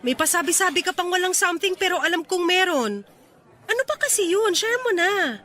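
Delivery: high, playful insistence; teasing prodding. Acted. Friend prods him to share his secret, teasing and high-pitched. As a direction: coax the secret out, pitch climbing.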